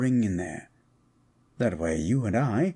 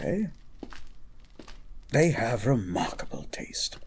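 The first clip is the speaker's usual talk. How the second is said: whisper; 4 dB quieter than usual. Acted. Complimenting her outfit.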